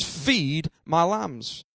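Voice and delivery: low, soft and very slow; quietly weighted voicing of Jesus; hushed retold command. Jesus responding to Peter's answer, hushed and slow. Preacher voices Jesus' reply.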